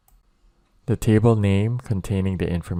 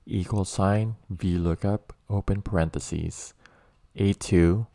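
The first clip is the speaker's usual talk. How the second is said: slow, spelled-out formula dictation; dictating; slower than usual. Shown as a demonstration. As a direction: read each piece out slowly, item by item. Dictating formula entry step by step.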